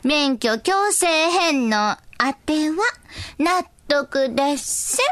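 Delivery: put-on slow, old-fashioned Kansai elder; creaky wise old man. Old figure's opinion read out.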